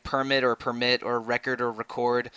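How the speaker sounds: "permit" and "record" each said first stressed on the first syllable, then on the second; shifting syllable stress. Shown as a demonstration. Co-host listing words whose meaning changes with stress, contrasting each pair. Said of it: "depending on where you stress the syllable".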